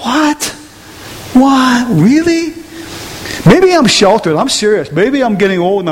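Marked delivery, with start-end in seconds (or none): 0.0-2.5 high, halting incredulity; retold bewilderment. Preacher replaying his shock at the lunchroom talk, high bewildered disbelief. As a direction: act out baffled disbelief.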